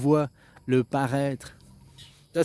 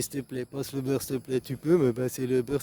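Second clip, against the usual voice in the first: softer polite "s'il te plaît, passe le beurre"; polite ask; 4 dB quieter than usual. Shown as a demonstration. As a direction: add the please, hurried. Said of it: "j'ai oublié".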